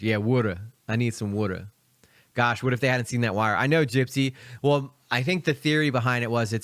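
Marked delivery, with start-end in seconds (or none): 0.2-1.7 "woulda" said as Philly for water; casual Philly "woulda", WOOD-uh; Philly pronunciation. Shown as a demonstration. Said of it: "in Philly, we say".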